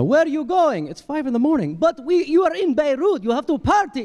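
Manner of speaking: high pushy party voice, pitched well up; insistent partier. Retold or imitated. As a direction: pull him out to party. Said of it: "Beirut partiers insisting".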